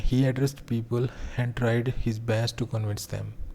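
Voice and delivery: reading an example sentence word by word; slow classroom dictation. Acted. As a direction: spell it out slowly for students to copy. Rereads example sentence slowly.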